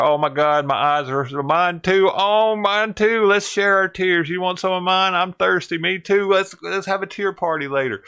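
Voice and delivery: mocking proud truckers sharing their tears; mock crying truckers. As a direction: parody sobbing pride, whiny and high. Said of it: "like, they were all crying".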